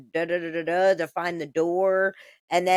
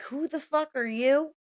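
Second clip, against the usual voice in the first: a higher, mock-challenging bark at an intruder; confronting a stranger; 7 semitones higher, 3 dB quieter than usual. Staff member confronting the shooter, mock indignant. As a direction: play a staffer lightly demanding who he is.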